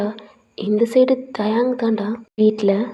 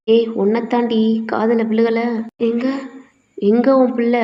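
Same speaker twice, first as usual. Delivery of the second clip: angry demand; 3 dB louder than usual. Acted. Angry father demands missing son.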